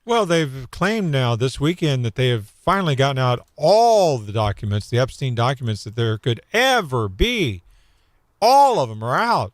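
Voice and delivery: dryly sarcastic; hint of sarcasm. Real, not acted. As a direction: let a little disbelief seep into the claim. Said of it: "hint of sarcasm in your voice".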